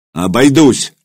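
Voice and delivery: a short mildly barked refusal. Acted. Ilya refusing help from the centurion, mild curt bark. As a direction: snap it off curtly, a touch of a bark. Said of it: "рявкнул Илья".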